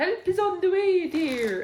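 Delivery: very high, very loud, shrill, drawn-out cry. Retelling a film scene of a choking diner being rescued: loud Mrs. Doubtfire impression. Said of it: "sorry for anyone who was listening to that with the volume up".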